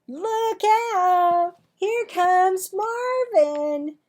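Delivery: high, loud mocking warning; taunting shout. Amanda mocks Marvin as he enters the lunchroom, high loud shout. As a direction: call it out across the room, slowly. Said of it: "shouted Amanda".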